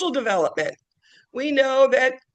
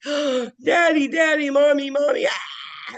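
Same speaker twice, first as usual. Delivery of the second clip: put-on higher, mildly wailing child calling parents; a hint of a distressed toddler; mock crying toddler; 7 semitones higher, slower than usual. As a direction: imitate a toddler crying for mommy. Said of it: "toddler starts screaming and crying".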